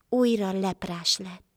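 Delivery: ordinary delivery, nothing marked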